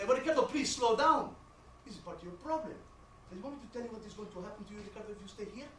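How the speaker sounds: lightly voiced accented mom; lecturing mother. Mother warning her son about court, lecturing. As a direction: spell out his fate like a worried mother.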